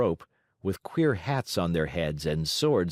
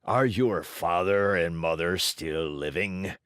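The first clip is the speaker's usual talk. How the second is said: gruff demand; 3 semitones lower than usual. Acted. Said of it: "demanded Fire Eater".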